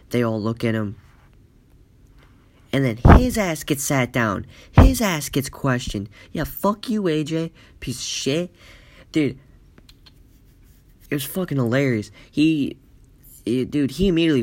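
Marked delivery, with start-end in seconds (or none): 6.3-8.5 high, gloating jeer; mocking taunt. Classmates turn on A J after he's caught, high gloating jeer. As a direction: jeer at him like a gloating schoolkid.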